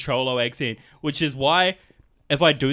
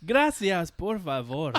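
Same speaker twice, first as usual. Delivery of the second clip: mock Mexican accent; 4 dB quieter, slower than usual. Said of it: "I'll switch it into Mexican".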